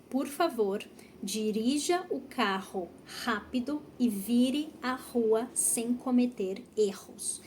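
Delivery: clear, measured teacher model with breathy R in "carro", "rápido", "rua", "erros"; model pronunciation. Shown as a demonstration. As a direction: enunciate the practice sentence for learners. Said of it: "Então, a frase é".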